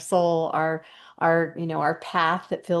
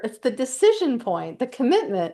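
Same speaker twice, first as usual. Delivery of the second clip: higher-pitched, excited insistence; getting excited; 5 semitones higher than usual. Real, not acted. Speaker insisting on commitment to a colleague, excited. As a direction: drive the key point home with real excitement. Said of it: "I'm getting excited here".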